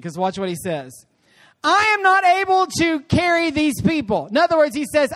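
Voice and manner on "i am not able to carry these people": higher, louder protest; worn-out leader complaining, voice raised; exasperated complaint. Acted. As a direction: plead that you can take no more. Preacher voices Moses' exasperated complaint.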